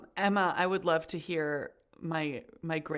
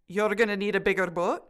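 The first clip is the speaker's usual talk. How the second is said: unconvincing Scottish brogue, questioning end; bad Scottish accent. Student retrying the film line, bad Scottish accent. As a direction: attempt Scottish, lifting the last word. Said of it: "my dulcet Scottish brogue".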